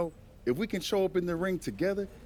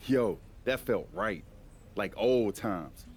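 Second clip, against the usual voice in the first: relieved and warm; 5 semitones lower, slower than usual. Acted. After fight, brothers reconcile.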